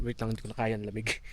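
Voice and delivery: shivering from the cold. Real, not acted. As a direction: teeth chattering, can't take it. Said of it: "Nanginginig ako".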